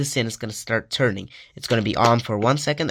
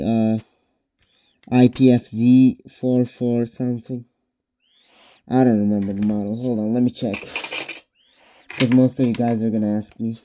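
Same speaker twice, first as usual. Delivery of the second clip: muffled, speaking inside a respirator; through a gas mask. Real, not acted. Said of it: "Sorry, I have a gas mask on".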